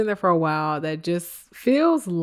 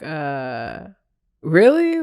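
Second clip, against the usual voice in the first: mock surprise; 5 dB louder, much slower than usual. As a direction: squeak it out in fake disbelief. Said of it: "they were like".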